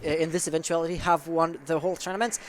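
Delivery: measured esports commentary, searching for words; English play-by-play. Acted. French caster calling a round in English for the chat, measured. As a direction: narrate the round calmly, thinking aloud.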